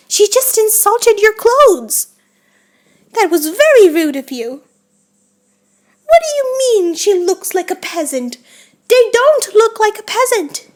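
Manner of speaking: mildly outraged scolding, emphatic; mock indignation. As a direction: play the offended hostess defending a friend. Pretend quarrel over an insult.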